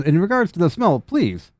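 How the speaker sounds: formal machine announcement; lightly voiced prim robot. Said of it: "He says".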